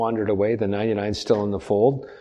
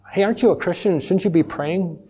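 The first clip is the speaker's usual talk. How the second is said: unbeliever; 6 semitones higher than usual. Acted. Unbeliever voiced waking Jonah.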